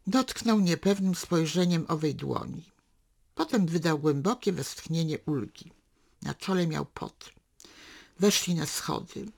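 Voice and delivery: measured literary reading, unhurried; story narration. A narrator's reading. Reader narrating a daughter and father's walk, calm storytelling. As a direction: read the novel excerpt to listeners. Reads a novel excerpt aloud.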